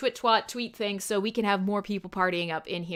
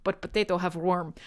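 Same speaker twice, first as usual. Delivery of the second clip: put-on angry Russian accent; 3 semitones higher, 8 dB louder than usual. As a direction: bark it out like a grumpy Russian storyteller. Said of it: "read that in an angry Russian voice".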